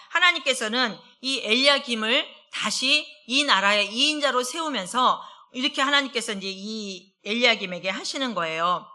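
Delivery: normal talking voice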